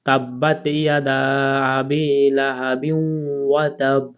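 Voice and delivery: a slow chanted reading, stretched vowels; slow recitation. Shown as a demonstration. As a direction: recite the verse measuredly. Reciting the joined verse. (ধীর তেলাওয়াত)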